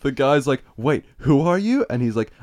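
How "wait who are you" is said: higher, slow puzzled query; mock baffled question. Retelling a guy who doesn't know Frankie Muniz, mock baffled. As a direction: play the guy totally baffled. Retold guy failing to recognise celebrity.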